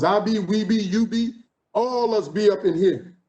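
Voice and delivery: lightly voiced New Orleans "I be" talk; a hint of home dialect, slowing on the last words. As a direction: rattle off "I be, we be, you be" like back home. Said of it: "Nobody was conjugating the verb to be".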